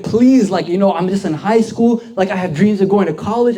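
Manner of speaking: imitating a pleading, panicky friend; freaking out. Friend pleads with the man who caught them, mock freaking out. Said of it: "He started freaking out".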